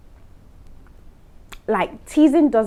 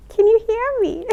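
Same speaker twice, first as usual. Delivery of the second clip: laughing break; 14 semitones higher, 6 dB louder than usual. Real, not acted. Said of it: "talking like this till the end".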